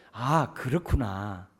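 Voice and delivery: slow, soft acknowledgment; gentle understanding. Shown as a demonstration. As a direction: let it sink in kindly. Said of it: "그 마음을 아는 거예요". (천천히 공감하며)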